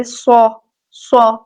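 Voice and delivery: سو said thick and full; heavy saad. Shown as a demonstration. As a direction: fill out سو heavily. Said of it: "صاد کو پر اور موٹا پڑھیں گے".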